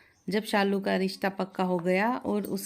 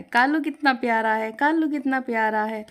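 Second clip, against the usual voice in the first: higher, louder parrot imitation of the complaint; parrot mimicking; 4 semitones higher, 4 dB louder than usual. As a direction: parrot aping the mother-in-law. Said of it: "कहता है". (सास की नकल करता तोता)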